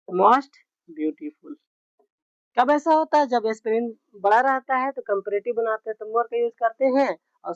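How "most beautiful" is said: drawn-out and low; teacher dictating slowly; slow dictation. Shown as a demonstration. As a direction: say most beautiful slowly.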